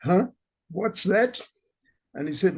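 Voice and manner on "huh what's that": put-on higher, puzzled question in an African accent; lightly put-on African accent, pitched up; imitated African accent. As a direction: imitate an African gentleman's baffled reply. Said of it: "in his accent, he said".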